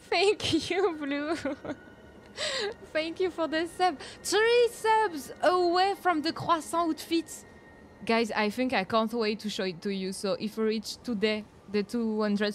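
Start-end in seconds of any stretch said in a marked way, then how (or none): 0.1-7.4 high, giggly, thrilled; excited thanks. Real, not acted. Streamer thanks Blue for the sub, high excited delight.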